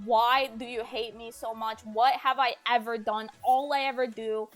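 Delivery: mild, pleading retold outburst; retold screaming. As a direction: re-enact a desperate protest without a full scream. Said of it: "I start screaming, saying".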